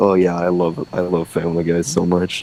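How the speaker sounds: ordinary delivery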